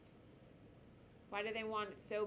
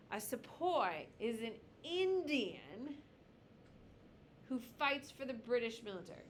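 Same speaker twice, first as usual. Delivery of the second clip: slow, word by word for note-taking; deliberate dictation pace; 2 semitones higher than usual. Shown as a demonstration. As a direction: spell it out slowly so they can write. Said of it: "How do you spell that?".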